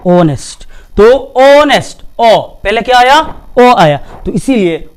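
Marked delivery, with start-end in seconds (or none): 0.1-0.6 ऑनेस्ट begun on the vowel, no h; silent H. Shown as a demonstration. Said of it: "आवाज ऐसा निकलेगा". 1.4-2.4 slow ऑनेस्ट opening on ओ, no h; silent H. Shown as a demonstration. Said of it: "आवाज ऐसा निकलेगा".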